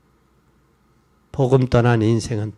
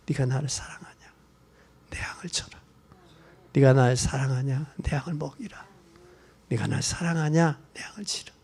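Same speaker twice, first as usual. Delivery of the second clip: hushed question; 3 semitones lower, 6 dB quieter than usual. Acted. Jesus asks Peter three times.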